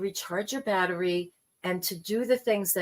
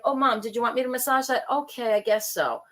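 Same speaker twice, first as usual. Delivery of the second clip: grudging; 2 semitones higher than usual. Retold or imitated. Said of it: "making me feel like".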